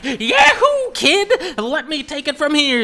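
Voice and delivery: high, loud heroic holler; whooping rescuer. Acted. King Phil flies in to save the kid, whooping. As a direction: swoop in whooping like a cocky space pilot.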